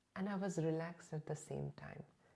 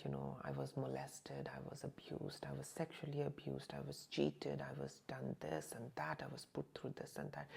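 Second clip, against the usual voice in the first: tearful confession; 6 dB quieter than usual. Retold or imitated. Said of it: "I started crying and telling her".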